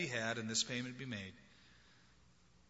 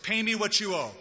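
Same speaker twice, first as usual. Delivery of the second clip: high, loud mock threat; demanding; 5 semitones higher, 5 dB louder than usual. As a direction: squeeze the debt out of him. Servant choking debtor.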